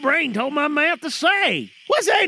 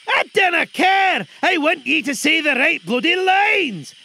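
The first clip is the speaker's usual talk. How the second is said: angry shout; 2 semitones higher, 3 dB louder than usual. Real, not acted. Director yelling.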